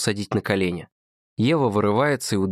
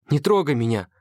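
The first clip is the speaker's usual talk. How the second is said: a raised, sharp cry; shout; 6 semitones higher than usual. A narrator's reading. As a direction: push him away with a yell. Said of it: "кричит Ева".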